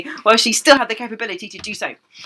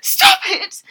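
sharp high stop; mock-forceful stop. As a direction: cut him off firmly. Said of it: "and then more forcefully".

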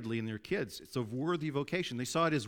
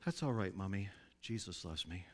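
put-on gentle, slightly softer child's reassurance; kindly voice; 4 semitones lower, 6 dB quieter than usual. Little son reassuring his upset mother, kindly. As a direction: comfort Mommy kindly, like a little boy. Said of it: "saying in a kindly voice".

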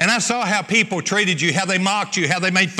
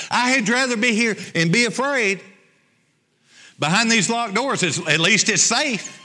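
pitched-up pleading disciple voice; reluctant disciple; 4 semitones higher than usual. Acted. Preacher voicing a scared disciple pleading with Jesus, whiny. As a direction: plead to stay safe behind locked doors.

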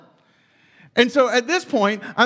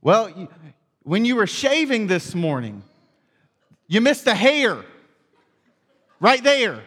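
lightly voiced old-timer explaining; older gentleman; 3 dB louder than usual. Older gentleman explains the shaving slip, lightly imitated old-timer. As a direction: imitate an older man pointing out a fault, with pauses. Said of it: "this older gentleman".

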